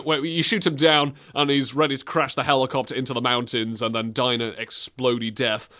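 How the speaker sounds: ordinary delivery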